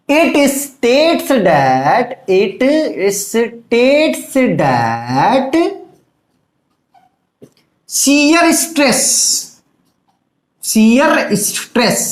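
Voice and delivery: drawn-out, halting delivery; slow dictation. Shown as a demonstration. Teacher starting to dictate the law to students, slow and halting. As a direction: stretch each phrase for note-taking. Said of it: "dictating the law slowly".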